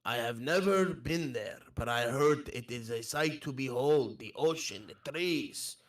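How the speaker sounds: put-on earnest foreign-accented wanderer; accented traveller. Admiring the pirate's homeland, accented traveller. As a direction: speak wistfully as a foreign traveller.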